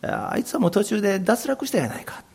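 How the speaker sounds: high, soft Kansai-ben rebuke; Kansai dialect. Retold or imitated. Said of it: "関西弁で言ったかどうか".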